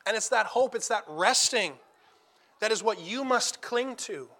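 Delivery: earnest sermon voice, steady and weighty; preaching. Acted. Preacher urging the congregation at a funeral, earnest preaching. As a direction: exhort the flock to hold on to hope.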